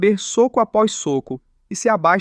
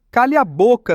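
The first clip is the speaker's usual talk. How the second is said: higher, louder angry shout; 4 semitones higher, 4 dB louder than usual. Acted. Angry heroine yells at teasing rival, loud. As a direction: yell it at him, furious. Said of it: "E ela grita".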